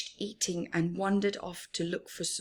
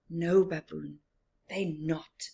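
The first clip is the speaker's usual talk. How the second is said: smiling, at peace; content reply; 3 semitones lower than usual. Acted. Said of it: "replied Rhino and smiled happily".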